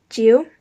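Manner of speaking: Jiu loud, dipping then rising; third tone. Shown as a demonstration. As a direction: swing Jiu down and up. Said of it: "goes down and then up".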